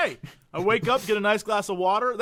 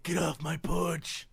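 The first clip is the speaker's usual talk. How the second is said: shouting at trespasser; 3 semitones lower, 7 dB quieter, slower than usual. Pretend.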